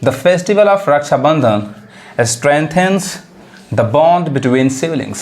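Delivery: very slow, word-by-word English sentence; slow example reading. Shown as a demonstration. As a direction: spell it out slowly for beginners. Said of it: "अब example देखिए". (बहुत धीमे शब्द-दर-शब्द पढ़ना)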